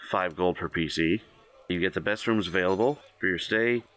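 even, measured GM read-out; game master narration. Acted. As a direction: lay out the options like a shopkeeper menu. GM reads shop options.

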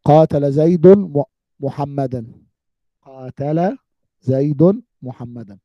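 slow, word by word, for the class; slow example sentence. Shown as a demonstration. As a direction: spell out each word of the example slowly. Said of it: "حينما أقول لكم". (مثال نحوي يُقرأ ببطء كلمة كلمة)

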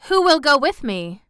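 put-on spoiled girl refusing to go out; Mary protesting. A narrator's reading. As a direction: scorn the wintry day. Mary asks.

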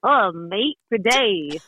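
light attempt at an Australian accent. Shown as a demonstration. Guest answers host's request for an accent, amateur Australian. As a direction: greet in your best Australian accent. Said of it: "give us your best Australian accent".

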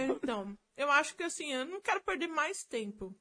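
talking through a mouthful of food; mouth full. Real, not acted. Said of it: "falando de boca cheia".

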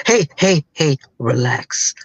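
imitating a calming father figure; lightly acted soothing coach. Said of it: "he was just so soothing".

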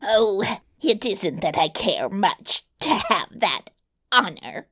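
mildly irritated dwarf voice; a touch of wounded temper, in character; angry dwarf. Acted. Dwarf stung by the princess's refusal, mildly angry. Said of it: "cried the dwarf angrily".

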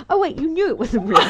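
high, loud, quick and through laughter; laughing self-mockery. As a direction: tell yourself off while cracking up. Laughing while retelling talk to herself.

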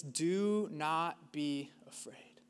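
slow, breathy whisper of the command; slow reverent whisper; hushed whisper. Acted. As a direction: breathe it out slowly like a secret. The Bible's most repeated command, hushed.

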